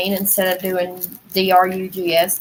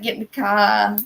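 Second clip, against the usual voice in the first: put-on copied Northern accent, long open "cah"; playful Northern accent imitation. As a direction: say it like the Northerners, R dropped. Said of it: "used to say that with them".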